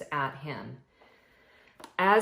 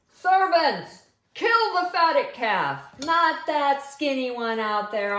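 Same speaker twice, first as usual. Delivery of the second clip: high, loud joyful father's commands; exuberant father; 6 semitones higher, 7 dB louder than usual. Acted. Father ordering servants to prepare the feast, high and loud. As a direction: celebrate loudly like a giddy dad.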